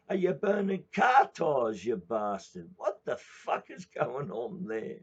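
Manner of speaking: shrill-free high loud yell, angry and rude; yelling wife. Retold or imitated. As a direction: screech it at him from across the yard. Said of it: "Fred's beautiful wife pulls up ... and says".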